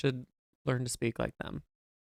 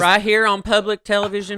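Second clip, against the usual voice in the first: mock outrage; 7 semitones higher, 9 dB louder than usual. Playful mock outrage at cohost.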